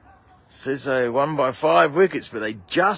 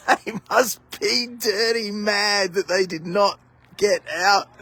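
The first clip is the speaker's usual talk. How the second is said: laughing while talking; 3 semitones higher than usual. Real, not acted. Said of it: "And I'm still laughing".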